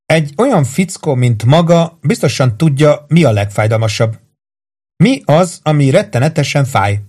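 a hint of menacing questioning; taunting torturer. Voices Carmel questioning her victim.

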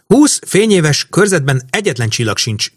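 high, mild narrated shout; excited cry without full volume. A narrator's reading. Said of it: "kiabálta Emese".

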